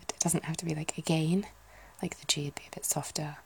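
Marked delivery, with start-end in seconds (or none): 1.0-1.4 lightly voiced Scouse, rising at the end; a Liverpool vowel in the word; Liverpool accent. Shown as a demonstration. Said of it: "the kind of Liverpool".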